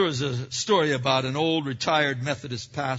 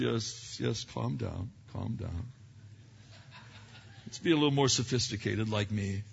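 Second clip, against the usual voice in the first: put-on condescending older Christian; 6 semitones lower, 7 dB quieter than usual. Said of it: "the older Christian goes".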